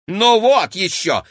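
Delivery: high, loud huffy protest; indignant. A narrator's reading. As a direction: scoff it, offended. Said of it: "возмутилась Кира".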